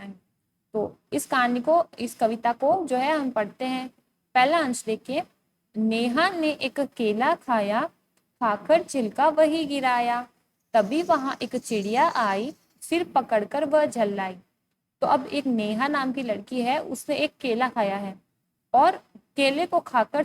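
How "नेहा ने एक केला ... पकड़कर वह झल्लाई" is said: put-on slow, measured verse reading for children; poem recitation. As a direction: recite line by line with pauses between. Reads the poem aloud. (कविता पाठ)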